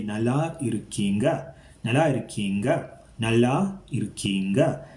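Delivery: "Nalla irukkinga" asked, pitch lifting on the final word; asking tone. Shown as a demonstration. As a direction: put a questioning lilt on "irukkinga". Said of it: "Again, that asking tone in that".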